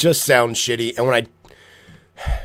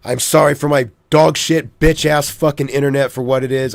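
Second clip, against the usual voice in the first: louder, angry rant at the internet; pissed-off venting; 5 dB louder than usual. Real, not acted. Streamer apologising to viewers while venting, loud and angry. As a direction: spit out the insults at the connection. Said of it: "a little pissed off".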